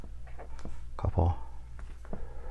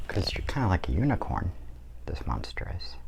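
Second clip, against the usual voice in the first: hushed whisper while drawing; soft unvoiced aside; 6 dB quieter than usual. Real, not acted. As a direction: whisper it as if concentrating on the page. Drawing, talking softly while sketching.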